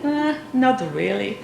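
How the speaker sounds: drawn-out, laughing deadpan reply; slow punchline through laughter. Retold or imitated. Speaker delivering the student's blunt answer to the audience, laughing. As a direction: let the punchline drop slowly while laughing.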